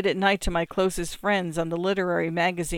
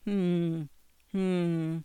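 grunting hmm; 5 dB quieter than usual. A narrator's reading. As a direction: grunt it twice. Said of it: "my father grunts".

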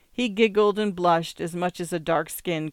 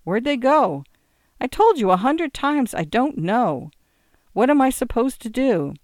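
exasperated, raised-voice bar argument; heated exchange; 7 semitones higher, 5 dB louder than usual. A narrator's reading. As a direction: snap back and forth, high and loud. Drunk and bartender quarrel at closing.

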